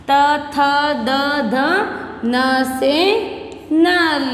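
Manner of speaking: slow, drawn-out letter-and-word drill; consonant recitation. Shown as a demonstration. Teacher dictating Hindi consonants to first class, slow recitation. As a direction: stretch each letter, then its word, for repeating.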